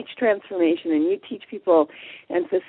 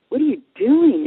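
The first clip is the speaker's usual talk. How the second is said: higher-pitched, taken-aback question; retold surprise at a persistent follower; mock startled question; 5 semitones higher, 3 dB louder than usual. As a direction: act out being caught off guard by someone. Seminar leader startled to see her again.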